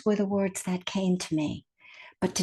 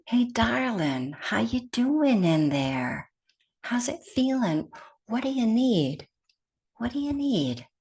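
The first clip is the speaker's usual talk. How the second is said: kind; 3 semitones higher than usual. Shown as a demonstration. Teacher speaking to herself as to a darling, kindly. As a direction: ask gently and unhurriedly, full of kindness. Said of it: "can you hear the kindness in that".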